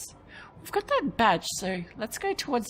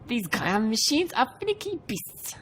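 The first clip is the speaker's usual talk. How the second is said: attempted Yorkshire accent; 4 semitones higher, 3 dB louder than usual. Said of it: "Well, that's Yorkshire, isn't it?".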